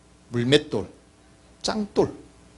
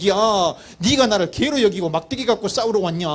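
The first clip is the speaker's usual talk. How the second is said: higher-pitched incredulous challenge; mock disbelief; 5 semitones higher than usual. Goliath scoffing at David's stick, incredulous challenge. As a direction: play a giant affronted by a puny challenger. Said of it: "골리앗이 보고 너무 기가 막히고".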